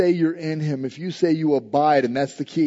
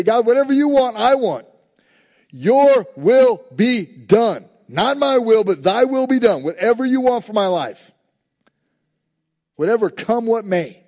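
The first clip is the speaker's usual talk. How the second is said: sincere prayer; 6 semitones higher, 6 dB louder than usual. Retold or imitated. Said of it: "We have to grow in our faith and say".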